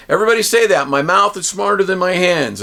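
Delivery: high-pitched call to repeat; teacher's rousing slogan; rallying the class. Acted.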